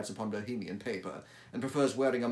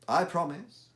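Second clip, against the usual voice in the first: higher, louder promise; Holmes voice; 8 semitones higher, 7 dB louder than usual. Acted. Holmes promises the visitor secrecy, higher and brisk. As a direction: give your word briskly.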